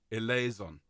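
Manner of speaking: "Eleison" ending in a buzzing "zon"; voiced Z ending. Shown as a demonstration. Choir leader answering a question, "Eleison" ending in "zon". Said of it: "it is a zon".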